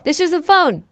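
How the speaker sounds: gruff action-hero calm, only hinted; mock Liam Neeson as the trapped dad; Liam Neeson impression. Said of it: "that's my Liam Neeson voice".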